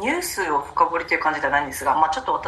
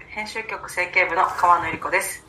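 raspy, just-woken-up voice; hoarse morning voice after drinking. Real, not acted. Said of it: "喉ガラガラですね".

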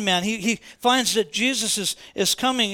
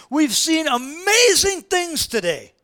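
raised, slow exclamation of wonder; acted awestruck exclamation; exclaiming; 7 semitones higher, 6 dB louder, slower than usual. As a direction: proclaim it high and loud, drawing it out.

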